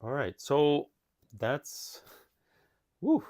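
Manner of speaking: breathless and panting; gasping between words; out of breath. Real, not acted. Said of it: "I gotta catch my breath here".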